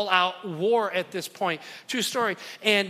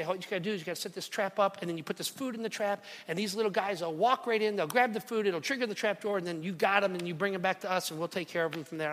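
hushed clerk; 5 dB quieter, faster than usual. Retold or imitated. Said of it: "And so they say".

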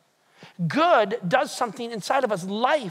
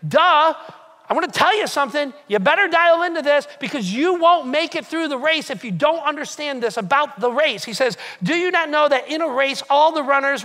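Paul voiced; 3 semitones higher, 5 dB louder than usual. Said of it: "he's like".

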